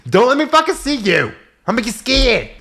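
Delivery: high laughing threat; laughing warning. Real, not acted.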